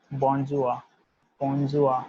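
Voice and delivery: bonjour said as "bon-zhoor", modelled for students; French bonjour drill. Shown as a demonstration. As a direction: repeat bonjour like a teacher. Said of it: "will be delivered as bonjour".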